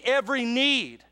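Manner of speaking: "need" leaned on and falling at the end; stress on need. Shown as a demonstration. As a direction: hit the word "need" hard. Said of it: "Emphasis on need".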